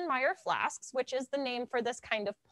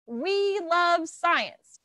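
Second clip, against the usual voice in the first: slow, louder, a bit higher; high-pitched demo line; 3 semitones higher, 6 dB louder, much slower than usual. Shown as a demonstration. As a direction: say it up high and drawn out. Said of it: "in your most high-pitched voice".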